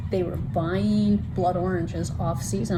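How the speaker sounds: slow, pointed quoting; deliberate quote. Retold or imitated. Book club member quoting a book's mistake, deliberate quote. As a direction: spell out the offending line slowly.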